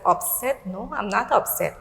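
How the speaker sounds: softly surprised echo, then denial; taken aback. Retold or imitated. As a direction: retell a quiet, puzzled reaction. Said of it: "I was taken aback".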